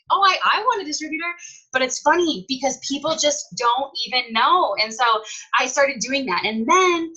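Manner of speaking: lively, rising excitement; getting hyped. Real, not acted. Seller telling her team how it started, hyped up. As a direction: get carried away as you explain. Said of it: "sorry, I'm getting way hyped".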